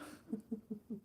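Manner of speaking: soft little breathy laugh; small hushed giggle; quiet chuckle. Real, not acted. Laughing at her own whispering.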